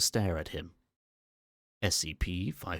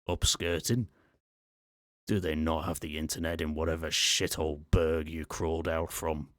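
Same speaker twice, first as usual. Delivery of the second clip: put-on Scottish accent. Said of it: "now speaking in a male Scottish accent".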